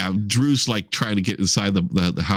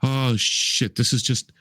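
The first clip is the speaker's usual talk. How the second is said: shocked swearing; 3 semitones higher, slower than usual. Acted. Acted shock at finding the body.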